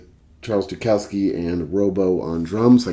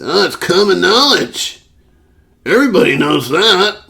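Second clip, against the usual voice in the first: smug coworker; 10 semitones higher, 6 dB louder than usual. Retold or imitated. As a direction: say it like it's obvious to everyone.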